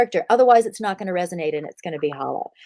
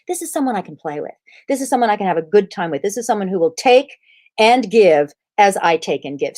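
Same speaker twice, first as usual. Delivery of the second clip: his thoughts. Retold or imitated. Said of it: "as he says".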